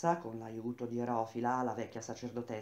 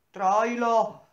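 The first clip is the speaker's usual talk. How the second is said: high, loud cry of his name; a sister's loud, high cry of alarm; anguished cry; 8 semitones higher, 12 dB louder than usual. A narrator's reading. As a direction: call out to him in terror. Sister sees brother in duel.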